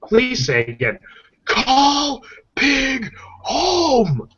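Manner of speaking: high, drawn-out robot voice on home; robotic phone voice. Retold or imitated. A cell phone repeats the command, in a mechanical voice. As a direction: stretch the last words like a glitching phone.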